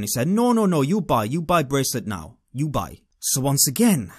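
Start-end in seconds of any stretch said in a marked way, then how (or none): 0.3-3.0 pushy street seller's imitated foreign accent; insistent foreign accent. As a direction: press the sale in a put-on foreign accent. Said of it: "The leader came back to me".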